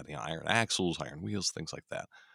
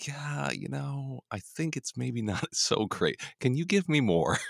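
whiny ungrateful people; 6 semitones higher, slower than usual. Retold or imitated. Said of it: "the very next thing is".

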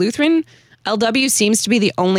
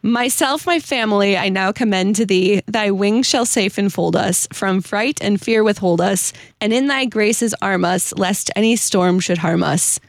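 slow, measured recitation of a hymn verse; slow solemn hymn recital; hymn reading. Acted. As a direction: read it out like a devout poem. Reads hymn stanza aloud.

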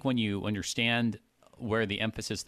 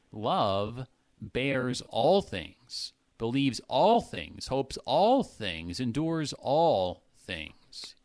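all held and weighted on each line, slow; slow, each all pressed hard; stress on all; much slower than usual. Shown as a demonstration. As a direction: lean into every all. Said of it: "Paul keeps emphasizing the word all".

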